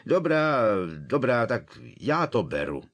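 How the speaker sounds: calling after them. A narrator's reading. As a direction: shout after the leaving guests. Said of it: "ozvalo volání".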